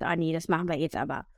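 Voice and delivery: whiny inner voice. Retold or imitated. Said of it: "der dann sagt".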